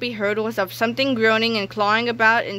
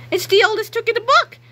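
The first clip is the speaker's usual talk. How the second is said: mock scoff; 13 semitones higher, 5 dB louder than usual. George scoffs at Melvin's machine.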